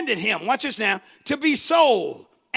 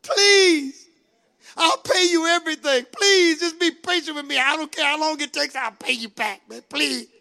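pleading servant; 4 semitones higher than usual. Acted. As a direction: beg quickly, then trail off. Preacher acts servant begging again.

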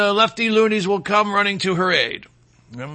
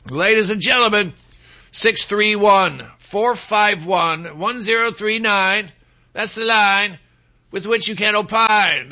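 announcer. Acted. Announcing call-in number as rapper.

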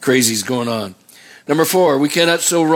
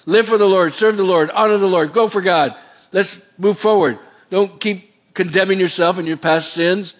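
rousing exhortation; 5 semitones higher than usual. Real, not acted. Preacher exhorting the congregation.

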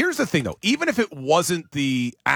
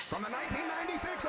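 mock forties radio announcer, fast and much softer; old-time baseball announcer; 9 semitones higher, 16 dB quieter, faster than usual. Host doing his one fake voice, old-time baseball announcer. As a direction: put on a vintage ballgame announcer voice. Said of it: "nineteen forties announcer for baseball".

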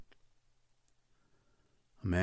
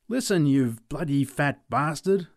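yelling; 4 semitones higher, 4 dB louder than usual. Retold or imitated. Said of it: "I yelled at him".

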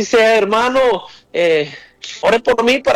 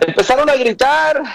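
rising repeat; 7 semitones higher than usual. Acted.

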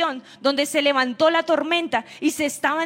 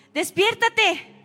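"despiértate" stretched out slowly and pitched up; slow drawn-out plea; 5 semitones higher, much slower than usual. Retold or imitated. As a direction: drag "despiértate" out slowly, begging. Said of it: "ellos se llenaron de angustia".

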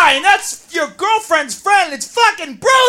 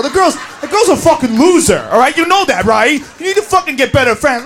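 bossy friend sneering; 4 semitones lower than usual. Acted. Acted friend scolding, far timbre.

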